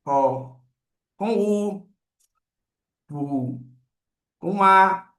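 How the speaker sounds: each syllable "Fé", "Ó", "U" said apart with pauses; syllable demo. Shown as a demonstration. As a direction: sound out F with each vowel, one by one. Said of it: "eu posso parear o F com o E".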